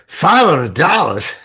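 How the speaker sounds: slow, loud incredulous echo of the price; shocked disbelief. Retold or imitated. Echoing the receptionist's price in shock. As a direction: repeat the price like you can't believe it.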